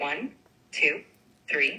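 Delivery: in-between speed. Counting again at a speed between slow and fast: medium-paced counting. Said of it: "count somewhere in between those two".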